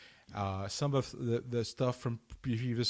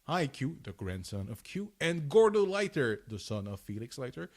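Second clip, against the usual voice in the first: punchy read-aloud with names and villains hit louder; dramatic synopsis read; 4 dB louder than usual. Acted. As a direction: read it out like a cartoon intro, leaning on the big words. Reads synopsis aloud from page.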